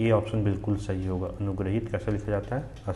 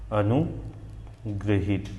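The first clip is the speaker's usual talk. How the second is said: अनुग्रहित drawn out, split as अनु, ग्रहित; slow dictation; much slower than usual. Shown as a demonstration. Teacher dictates the answer for writing, very slow and split. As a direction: spell out अनुग्रहित slowly in two parts. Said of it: "ये आपका सही answer होगा".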